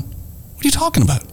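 high disbelieving squeak; incredulous. Retold or imitated. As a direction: act baffled, voice shooting up. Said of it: "I'm going".

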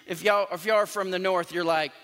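ordinary delivery

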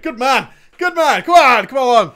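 normal talking voice

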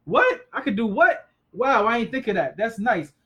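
high, loud whoop of delight at a discovery; excited reading. Retold or imitated. Preacher acting out his joy at reading the Bible, high, loud and delighted. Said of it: "I'll be reading the Bible and I get excited".

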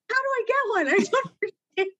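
high, baffled, laughing; confused voice. Retold or imitated. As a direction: play it lost and clueless. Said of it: "but then you're like".

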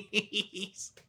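words squeezed out through laughter; laughing so hard the word fades. Real, not acted. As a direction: giggle through the last word.

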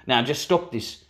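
firm South African accent, lightly voiced. Scolding Daryl, light South African accent. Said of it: "I could do a South African accent".

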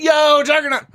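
high, hyped-up shout of the name; excited. Shown as a demonstration. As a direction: greet the name like a fan. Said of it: "you're like".

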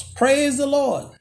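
lightly voiced old church lady; mock church lady shout.

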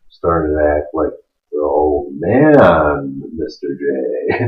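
put-on low, slow, faint old man. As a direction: fade into a tired old man. Acting like his old dad.

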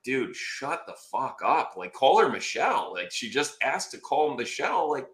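mock exasperated plea rising in pitch; retold seething. Muted client glaring at lawyer on camera, seething. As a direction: silently scold him, climbing to a high finish. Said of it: "I'm, like, glaring at him".

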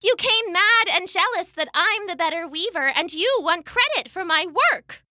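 scared but angry. Acted. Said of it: "still scared but mad now too".

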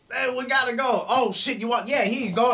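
high, squeaky goblin talking fast to get away; a sly little goblin smoothing things over; nervous goblin. Acted. Goblin caught ransacking the house, squeaky nervous voice.

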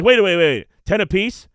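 high, loud mock disbelief; excited kids. Retelling kids offered money for shoveling, so excited. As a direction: imitate a kid thrilled by the offer. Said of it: "they get so excited".

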